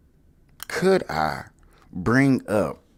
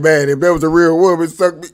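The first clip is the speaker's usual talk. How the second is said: imitating co-host; 5 dB louder than usual. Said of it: "you wonder why you like".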